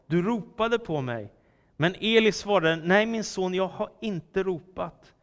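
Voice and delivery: animated, emphatic Bible reading; scripture reading. A narrator's reading. Preacher reads young Samuel's night calling to the congregation, animated scripture reading. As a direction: read the story out clearly with dramatic pauses.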